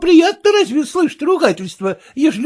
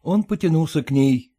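story narration; 10 semitones lower, 5 dB quieter than usual. A narrator's reading. Narration beside character voices.

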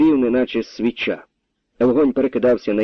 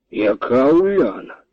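raised voice; 4 semitones higher, slower than usual. A narrator's reading. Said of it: "повторив, підвищивши голос".

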